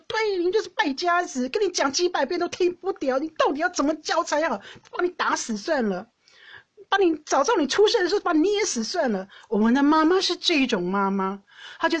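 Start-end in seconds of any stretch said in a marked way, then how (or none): 0.1-9.3 mother scolding. Retold or imitated. Mom scolds son while dad beats him, shrill high rant. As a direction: rant like a furious mom at her bad son.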